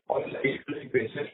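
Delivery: faint, muffled phone line. Real, not acted. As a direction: speak as if through a hand over the mouth. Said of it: "you're sounding muffled".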